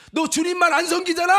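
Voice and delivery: high, loud accusing shout; inner voice shouting. Retold or imitated. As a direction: cut in with a shouted rebuke. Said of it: "속에서 막 소리치는 거야".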